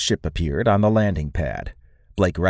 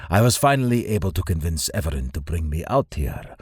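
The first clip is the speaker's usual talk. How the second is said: lightly voiced stately lord; Lord Noskov; 2 semitones lower than usual. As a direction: speak as an old acquaintance, slightly lowered and softened.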